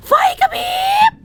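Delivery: very high, loud shriek; shrieked alarm. Acted. Gamer shrieking a warning as the lights flicker.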